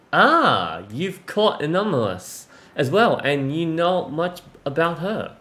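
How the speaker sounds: measured read-aloud of game dialogue; storytelling read, paced with pauses; story narration. Acted. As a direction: read the character's lines out, phrase by phrase.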